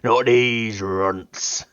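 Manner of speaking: drawn-out, gruff scorn; slow gruff Ogryn sneer. Retold or imitated. Gamer imitating the Ogryn's slow gruff sneer. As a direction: sneer it slowly like a brute. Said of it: "I don't really think I can do his particular accent".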